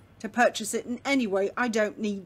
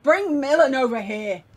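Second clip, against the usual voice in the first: mild yell; 3 semitones higher, 5 dB louder than usual. Acted. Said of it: "he kinda yells at somebody nearby".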